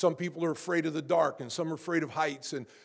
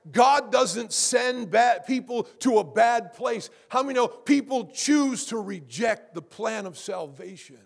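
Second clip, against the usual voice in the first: emphatic pulpit declaration; impassioned preaching; 4 semitones higher, 4 dB louder than usual. Real, not acted. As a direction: proclaim it firmly to the congregation. Preacher at full force.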